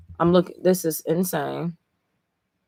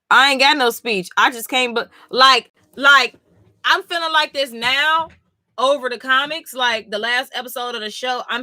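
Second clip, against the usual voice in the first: emotional excitement; 6 semitones higher than usual. Real, not acted. Emotional high rush.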